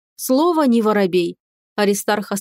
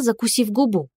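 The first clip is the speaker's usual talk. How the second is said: ordinary delivery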